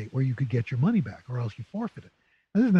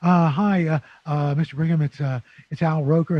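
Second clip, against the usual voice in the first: nervous stammer, a bit louder; stammering nervously; 5 dB louder than usual. Retold or imitated. Young Al calling the news director, stammering nervously. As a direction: stumble over the words like a nervous kid. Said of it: "I'm stammering".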